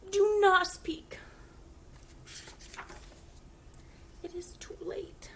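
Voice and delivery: slow, hushed tragic whisper; dramatic whisper. Acted. Gerald telling Piggy they must part, slow whisper. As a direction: mourn it in a hammed-up hush.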